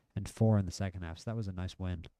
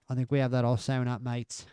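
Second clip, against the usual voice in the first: a hammed-up British accent, higher pitched; bad British accent; 3 semitones higher than usual. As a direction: try a British accent that drifts Australian. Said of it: "The horrible British accent".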